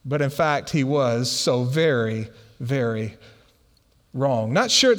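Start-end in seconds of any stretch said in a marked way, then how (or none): 0.7-4.5 slow, low "very", pause, then "wrong"; each "very" weighed, "wrong" dropped in alone; deliberate emphasis. Real, not acted. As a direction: space out "very very wrong", pitched down. Deflating contrast to so right.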